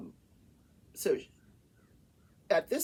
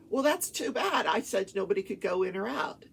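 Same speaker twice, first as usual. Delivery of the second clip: retold stern rebuff; 5 dB louder than usual. Judge rebuffing lawyer about locked-out paralegal, mock stern. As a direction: imitate an unbending judge.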